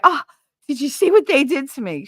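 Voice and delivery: high mocking whine; mock whiny victim. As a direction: mimic a self-pitying complainer.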